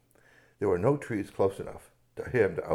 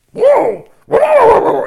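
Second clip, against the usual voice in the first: very high, loud amazed whoa; delighted whoas; 21 dB louder, much slower than usual. Acted. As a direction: gasp with delight. Bear loves sandwich.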